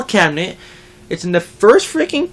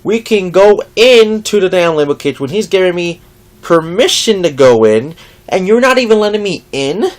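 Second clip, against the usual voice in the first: retelling a heated comeback, louder; exasperated retort; 7 dB louder than usual. Retold or imitated. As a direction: argue back, fed up. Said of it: "And I'm like".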